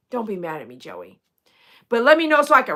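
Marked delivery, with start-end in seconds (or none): 0.1-1.2 unvoiced whisper to Joey; whispered apology. Real, not acted. Apologizing softly.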